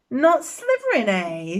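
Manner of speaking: a hint of the hat, curious and teasing; lightly voiced hat, picking up his thought; small voice. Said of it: "said the small voice".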